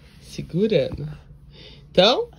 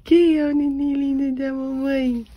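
squeaky praising a dog; 6 semitones higher than usual. Real, not acted. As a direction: coo to the little one. Baby talk to her little one.

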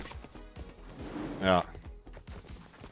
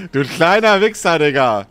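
berserk rage; 4 semitones higher, 5 dB louder than usual. Real, not acted. Insulting the opponent.

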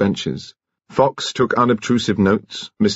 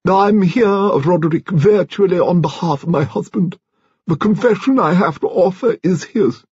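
high-pitched, declamatory grande dame; imperious old-guard lady; 11 semitones higher than usual. A narrator's reading. Lady Lacklander confessing on behalf of her husband, imperious. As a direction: make a formal announcement in a raised voice.

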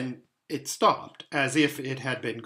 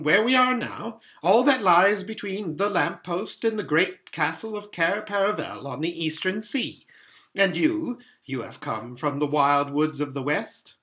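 higher, louder faun, a little grand; lightly played faun, earnest and inquiring; lightly voiced fawn explaining; 4 semitones higher, 5 dB louder than usual. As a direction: present the land as a proud fawn.

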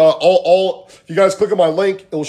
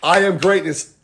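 slow, spaced-out affirmation; mantra; slower than usual. Shown as a demonstration. Coach giving the group a mantra, slow affirmation. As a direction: say it slowly for others to repeat. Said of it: "you stop and you say".

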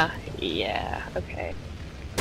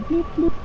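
alien bloop; 7 semitones higher than usual. Retold or imitated. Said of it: "sounded like an alien".

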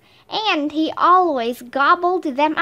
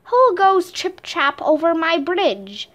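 troll growl; 4 semitones higher than usual. Acted. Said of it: "growled the troll".

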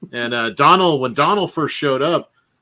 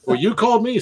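higher, laughing through the retort; amused mock reply; laughing agent; 10 semitones higher, 4 dB louder, faster than usual. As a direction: giggle the comeback at him. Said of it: "Well, sir, I'm just here to help you".

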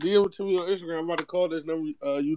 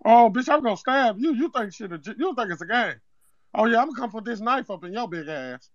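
a lightly put-on accent, prank caller opening the complaint; Zeke from Power. Prank caller tells the home cook about old food, lightly put-on accent. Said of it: "why is he talking like Zeke off power".

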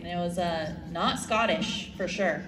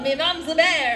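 Scottish accent; 6 semitones higher, 4 dB louder than usual. Shown as a demonstration. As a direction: pretend to be a born Glaswegian. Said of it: "Erica, you from Scotland?".

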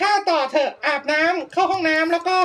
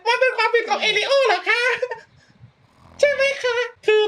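mock plea; 5 semitones higher than usual. Player pleading over Sim's fate.

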